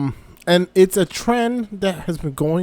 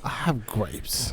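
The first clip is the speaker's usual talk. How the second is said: softer, slow grumbling; low grumble; 6 semitones lower, 12 dB quieter, slower than usual. Acted. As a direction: mutter it slowly and darkly. Slower, quieter repeat.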